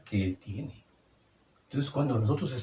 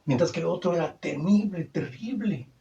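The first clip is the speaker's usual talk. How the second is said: awed high emphasis; 7 semitones higher than usual. Acted. Contrasting fearsome law.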